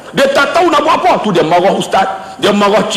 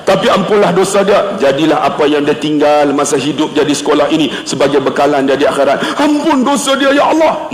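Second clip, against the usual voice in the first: supplication, low in the middle then rising; prayer recital; 6 semitones lower than usual. Retold or imitated. Praying for the principal's forgiveness, earnest supplication. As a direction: intone the plea, lifting it at the end. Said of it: "saya baca doa".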